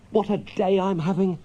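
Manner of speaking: high, gleeful and light; happy Mole. Acted. Mole delighted with his day, high and gleeful. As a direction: bubble over with joy. Mole's sheer happiness.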